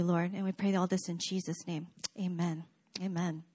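hushed, earnest prayer voice. Acted. Pastor leads a prayer.

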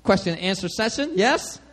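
incredulous, pitch jumping up on what is this; a preacher irritated at being interrupted mid-meeting; annoyed preacher. Retold or imitated. Preacher brushing off a man in the audience, incredulous. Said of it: "And Doctor Brown's like".

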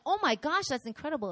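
high, delighted gushing; mock amazement. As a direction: act out an enthusiastic reaction. Acting the celebration that was missing.

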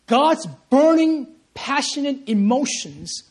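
God's burning passion, cried out slow and loud; slow, loud and high. Real, not acted. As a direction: preach it out slowly and high. Preacher builds to climax.

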